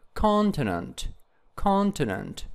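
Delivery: "continent" with CON stressed, the rest falling; stress on first syllable. Shown as a demonstration. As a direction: punch CON in "continent", pausing between repeats. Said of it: "also it is on the first syllable".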